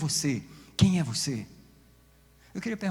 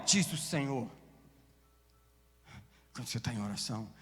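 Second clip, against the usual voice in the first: ordinary talk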